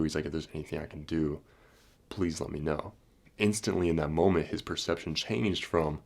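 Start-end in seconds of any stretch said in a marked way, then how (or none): 0.3-2.9 soft, subdued offer of help; retold remorse. Passenger offering help to the orphans' escort, quietly remorseful. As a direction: imitate a quietly apologetic man. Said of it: "went to sadness and remorse".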